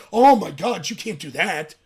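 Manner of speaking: mock clutch-the-pearls outcry; mock shocked outrage. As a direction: play the scandalised critic, overdone. Mocking the left's outrage at Trump.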